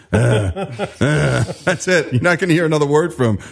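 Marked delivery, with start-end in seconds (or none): 0.1-0.2 short low grunt; imitated grunt. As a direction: grunt like a bored guy. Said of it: "he does that famous Jesse grunt".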